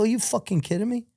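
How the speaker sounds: high, shocked question; you can't believe what you're hearing; disbelief. Retold or imitated. Told underwear all have stains.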